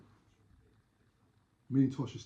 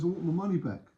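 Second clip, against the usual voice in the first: higher-pitched mock refund demand; acted demand; 6 semitones higher than usual. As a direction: play the aggrieved customer insisting. Cheated buyer demands refund in story.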